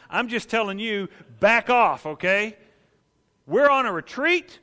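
high, loud ordering them off; angry dismissal. Retold or imitated. Hot-tempered disciple chasing crowd away, angry. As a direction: drive the crowd back. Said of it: "what he's gonna say to this crowd".

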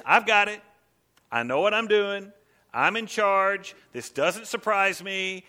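loud, ringing promise from God; confident God. Pretend. Preacher voicing God's answer to his church, loud and sure. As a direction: boom out that God is in charge.

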